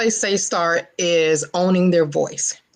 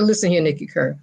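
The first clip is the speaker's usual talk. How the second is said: conviction. Retold or imitated. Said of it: "he said it with conviction".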